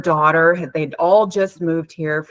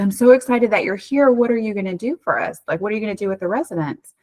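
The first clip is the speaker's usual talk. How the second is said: lightly acted, raised and eager, then quicker; retold excitement; 4 semitones higher, faster than usual. Greeting the returning daughter in a mildly excited retelling. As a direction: replay the happy greeting with a lift.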